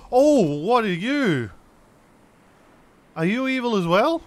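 gamer asking a strange new creature, wary and high; wary surprise. Real, not acted. Stretch it out, eyeing it warily.

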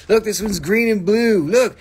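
loud and high, thrilled by the colours; excited. Real, not acted. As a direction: call out look like you can't believe it. Excited by a stone.

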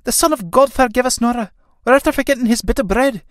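high, dismayed exclamation; crying out. Acted. Kathleen realises the bread was forgotten, crying out high. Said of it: "Kathleen crying out".

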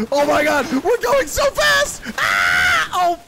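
loud high thrilled screams; sledding downhill. Real, not acted. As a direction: scream with joy on a wild ride.

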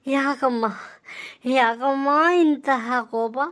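lightly hammed stage-drama plea, slow at first; a hint of a theatrical devoted son lamenting; mock mythological son. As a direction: plead with mother like an old play hero. Son pleads in mock-classical style.

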